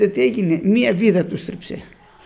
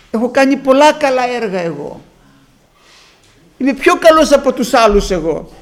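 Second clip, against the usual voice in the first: boastful pride; 4 semitones higher, 3 dB louder than usual. Retold or imitated. Imitating a proud self-righteous man.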